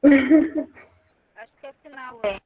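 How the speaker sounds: choppy robotic audio, cutting out; breaking up like a robot; glitchy robotic call. Real, not acted. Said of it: "parecendo um robô falando".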